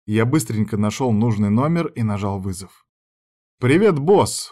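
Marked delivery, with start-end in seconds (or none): 3.6-4.5 cheeky greeting, a little higher; light smirk. A narrator's reading. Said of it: "усмехнулся я".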